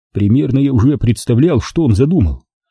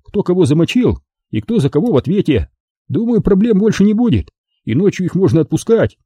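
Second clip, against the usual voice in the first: put-on higher, steady young lifeguard voice; Andrey the lifeguard; 4 semitones higher than usual. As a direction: speak as the calm lifeguard Andrey. Andrey's voice in dialogue.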